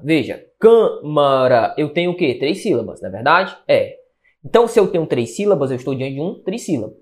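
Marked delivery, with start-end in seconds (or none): 0.6-1.7 "câmara" dividido devagar, com a primeira sílaba forte. Shown as a demonstration. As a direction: stretch out the first syllable of "câmara". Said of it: "Qual a sílaba mais forte?". ("câmara" pausado, com ênfase na primeira sílaba)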